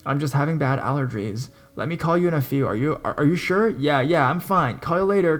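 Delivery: bright forced cheer; fake cheerful calm. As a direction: pretend everything is fine. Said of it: "I snap back into character".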